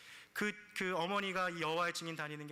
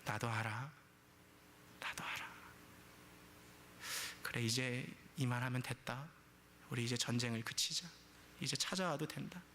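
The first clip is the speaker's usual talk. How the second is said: lower, halting voice with long pauses; subdued retold concession; 4 semitones lower, 4 dB quieter than usual. Mother finally relenting to her daughter, low subdued concession. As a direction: give in quietly, phrase by phrase. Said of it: "이 한마디를 이렇게 탁 뱉더라는".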